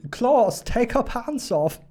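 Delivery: high, slow, hammed-up order; mock porn director. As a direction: call to Klaus like bad porn acting. Mock German porn character.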